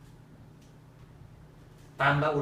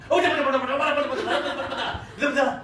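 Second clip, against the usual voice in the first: laughing mock plea; 12 dB louder, faster than usual. Pleading with angry wife, joking.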